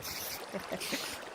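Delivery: soft breathy villain chuckle; a sly little evil snicker; evil laugh. Acted. Plotting the horse paddock, quiet evil chuckle. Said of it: "Ah, evil laugh".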